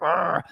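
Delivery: imitated growl of outrage; comic "arr" of fury; mock angry growl. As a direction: growl like furious friends. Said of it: "they were furious with that".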